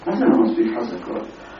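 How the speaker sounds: retold puzzled challenge; questioning echo. Shoemaker answers the customer's complaint, questioning echo. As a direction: throw the complaint back as a question.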